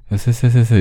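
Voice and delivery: 쎄쎄쎄쎄 with a hissy, lisped s; 쎄쎄쎄쎄 said with a tongue-forward slushy s. Retold or imitated. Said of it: "이렇게 말한다?".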